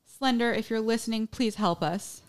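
half-laughing imitation of pleading; mock plea. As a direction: call out a put-on plea. Acting out girl's plea to Slender Man.

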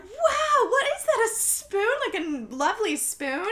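high, loud mock gushing over the spoon; gushing party guests. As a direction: squeal it like impressed shower guests. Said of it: "some people at the shower are like".

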